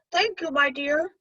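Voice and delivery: put-on high, slow feeble old voice; weak voice. Wolf as sick Granny to the girl, slow and weak. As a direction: fake a frail sick granny. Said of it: "said the wolf in a weak voice".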